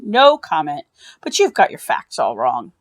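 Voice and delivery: lightly voiced doctor. Doctor refusing on phone.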